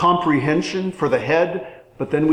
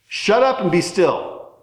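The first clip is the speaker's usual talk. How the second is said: harsh shut up; 4 semitones higher than usual. Retold or imitated. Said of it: "that's not the tone of voice".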